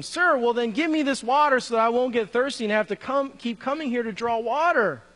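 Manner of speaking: acted-out sarcastic reply; mildly sarcastic. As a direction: voice her request with a touch of sarcasm. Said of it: "you can sense the sarcasm here".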